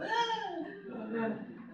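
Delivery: sharp gasp in; demo gasp. Shown as a demonstration. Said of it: "can you all go".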